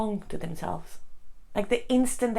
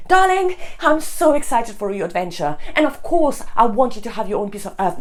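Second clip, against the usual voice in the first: excited, supportive husband; 2 semitones higher, 6 dB louder than usual. Acted. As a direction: gush support as the wished-for husband. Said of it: "if he had taken me in a big hug and said".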